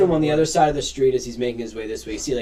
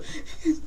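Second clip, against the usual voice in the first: put-on children's whimpering; 3 dB quieter than usual. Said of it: "they're all kind of crying".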